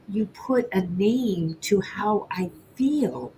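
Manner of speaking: slow, softly emotional confession; retold tearfulness. Baker telling fellow owner she feels understood, gently tearful. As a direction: say it slowly, moved almost to tears. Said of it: "I was on tear, in tears".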